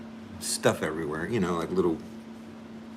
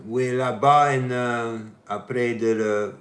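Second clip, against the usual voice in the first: foreign accent in French. Real, not acted. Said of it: "I try to speak French".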